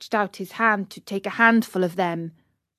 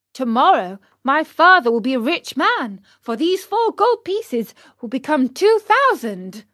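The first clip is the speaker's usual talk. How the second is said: Pinocchio voice; 4 semitones higher, 4 dB louder than usual. Acted.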